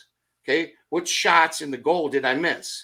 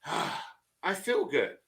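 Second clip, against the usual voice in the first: soft, relieved end-of-day sigh; contented relief; 2 semitones lower, 7 dB quieter, slower than usual. Retold or imitated. Worker at the end of the day, contented relief. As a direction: breathe out a sigh, then softly satisfied.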